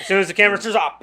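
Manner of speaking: fast, loud, building up the joke; excited. Real, not acted. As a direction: rush the setup with rising glee. Joking build-up, laughing fast.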